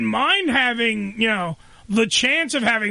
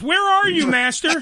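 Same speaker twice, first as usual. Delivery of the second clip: genie; 4 semitones higher than usual. Pretend. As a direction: call out like a genie to its master. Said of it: "I sound like I'm fucking Genie in the lamp".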